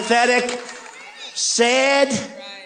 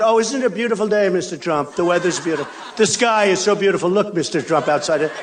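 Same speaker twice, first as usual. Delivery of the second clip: mock small talk. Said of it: "They don't talk about".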